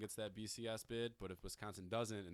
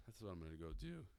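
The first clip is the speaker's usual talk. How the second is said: voice crack; 6 dB quieter than usual. Real, not acted. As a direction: voice cracking mid-line. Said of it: "and we got the voice crack".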